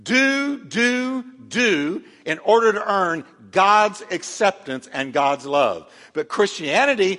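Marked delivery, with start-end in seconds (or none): 0.0-5.9 demanding taskmaster. Acted. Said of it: "Religion cracks a cruel whip saying".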